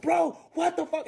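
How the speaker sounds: high, slow mock outrage; imitating pissed boyfriend. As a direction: stretch it out in pissed-off disbelief. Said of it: "He's pissed".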